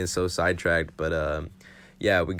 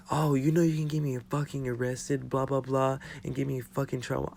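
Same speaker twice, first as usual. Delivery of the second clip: higher-pitched mock auntie complaint; imitated scolding auntie; 6 semitones higher, 4 dB quieter than usual. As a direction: mimic a fussing auntie in a high voice.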